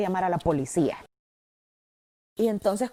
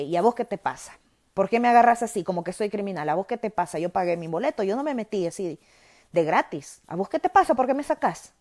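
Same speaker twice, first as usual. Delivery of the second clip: reclamo enojado; 5 dB louder than usual. Retold or imitated. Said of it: "Nos pusimos de tú a tú".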